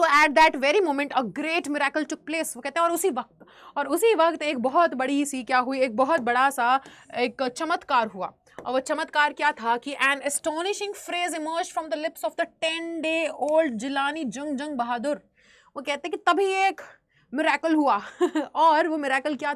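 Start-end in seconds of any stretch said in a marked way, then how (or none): 0.0-2.6 slow, deliberate read-aloud; teacher reading a story passage slowly to the class. Acted. Reads English story text aloud. 9.9-15.2 slow, deliberate read-aloud; teacher reading a story passage slowly to the class. Acted. Reads English story text aloud.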